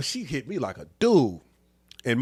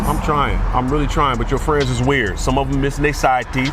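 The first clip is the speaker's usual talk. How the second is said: louder and higher, an exasperated rant; skit complaining boyfriend; 4 semitones higher, 6 dB louder than usual. Acted. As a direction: whine and grumble like a fed-up boyfriend.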